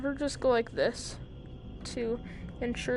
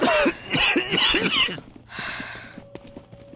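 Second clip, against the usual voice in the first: held breath strain; 8 dB louder than usual. Shown as a demonstration. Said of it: "they hold their breath".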